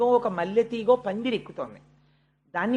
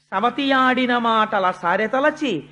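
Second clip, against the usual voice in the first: verse recitation; 3 dB louder, slower than usual. Acted.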